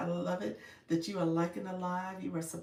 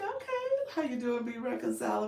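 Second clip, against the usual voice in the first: imagined greeting; 7 semitones higher than usual. Acted. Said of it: "You're like".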